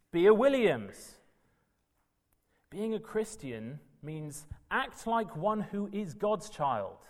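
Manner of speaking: usual speaking voice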